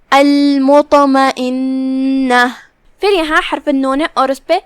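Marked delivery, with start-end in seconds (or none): 0.1-2.5 المطمئنہ slowly, with the ط bounced and heavy; drawn-out recitation, the ط shaken; qalqala on ta. Shown as a demonstration. Teacher shows the word to students, ط bounced in slow recitation. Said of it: "ہم طا کو ہلاتے ہوئے یہ کلمہ کو ادا کریں گے".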